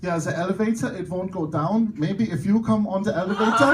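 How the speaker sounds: mock German accent, imitating a woman; thick German accent. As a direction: put on a German accent for the quote. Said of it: "with a very thick German accent".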